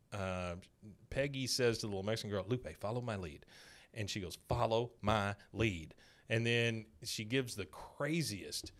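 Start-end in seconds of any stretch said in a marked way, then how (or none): 4.5-6.0 slow, word-by-word repetition; imitating a child carefully repeating a phrase; slow parroting. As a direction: echo it slowly, one word at a time. Girl parrots Peggy word by word.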